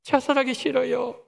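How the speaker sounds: a touch of desperate pleading; mock tearful plea; pleading prayer. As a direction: cry out to Jesus lightly, begging. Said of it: "교회 나갔을 첫 마디가 이것이었다고 합니다".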